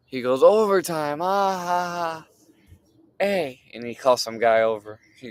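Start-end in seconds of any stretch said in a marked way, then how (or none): 0.4-3.6 mocking laugh. Guy mocks overtime question.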